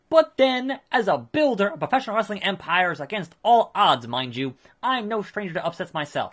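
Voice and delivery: a hint of a slick, self-satisfied manager; Paul Heyman. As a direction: play a pompous promoter handing out praise. Voices Paul Heyman's game dialogue.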